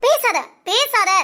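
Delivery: slow, cold and angry; angry girl silencing her lying lover; slow angry order. Acted. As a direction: cut him off, each word slow. Furious, cutting him off.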